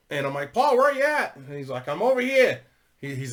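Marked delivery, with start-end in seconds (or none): 0.5-1.3 loud, high call across the yard. Retold or imitated. Calling out to Paul at his place, loud high call. 1.9-2.6 high, louder call from a distance; calling back. Retold or imitated. Paul calling back from the gate, high call.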